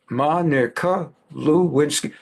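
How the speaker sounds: Monica Lewinsky said slowly, every syllable deliberate; drawn-out Monica Lewinsky, falling at the end; slow, weighted name. Shown as a demonstration. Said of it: "I'm gonna say a name".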